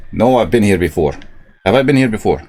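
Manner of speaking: put-on Scottish accent slipping to Irish. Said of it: "it's coming out Irish".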